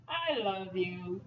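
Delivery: lingering, slow declaration; changed inflection. Shown as a demonstration. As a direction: stretch out "I love you" gently. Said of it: "you change the inflection".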